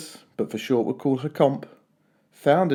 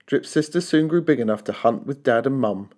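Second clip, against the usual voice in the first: ordinary delivery, nothing marked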